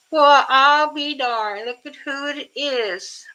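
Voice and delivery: pleasantly surprised. Real, not acted. Greeting a returning viewer.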